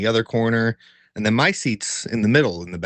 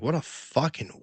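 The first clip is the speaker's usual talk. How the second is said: muttered aside; 4 semitones higher, 6 dB quieter, slower than usual. Retold or imitated. Muttering after moving seats.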